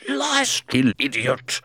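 very high, loud furious shout. A narrator's reading. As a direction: snap the order out at full volume. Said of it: "The voice shouted".

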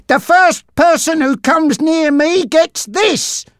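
a hint of heavy breath behind the warning; breathing heavily. Bob to his attackers, panting lightly. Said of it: "breathing heavily".

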